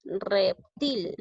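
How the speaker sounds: "Reptil" split as rep, til; short gap between the two syllables of "Reptil"; teacher syllabifying "Reptil". Shown as a demonstration. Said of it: "De esta manera es decir".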